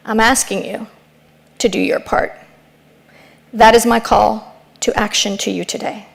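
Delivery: gentle mom. Retold or imitated. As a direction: settle her down tenderly. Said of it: "and she said".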